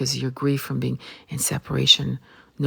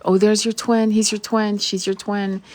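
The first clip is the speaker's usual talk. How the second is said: lightly mocking, higher-pitched salesperson; mock matchmaker; 6 semitones higher, 3 dB louder than usual. Coach presenting a paying client's twin flame, mock matchmaker. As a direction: hand out each match in a higher, sing-out mimic. Mimics coaches packaging up twins.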